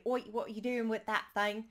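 quick put-on Cockney street challenge; Cockney accent. Shown as a demonstration. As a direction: do a stereotypical Cockney British accent. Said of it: "like, the Cockney British accent".

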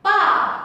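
Ba started high and dropped sharply; fourth tone. Shown as a demonstration. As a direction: ring out Ba then let it fall hard. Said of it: "Đây là thanh bốn nhá".

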